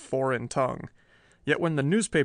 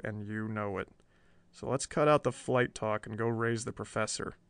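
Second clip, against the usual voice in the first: softer, steady calming voice; calm and reassuring; 2 semitones lower, 6 dB quieter than usual. Acted. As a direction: settle a panicked friend. Perry calming his companion.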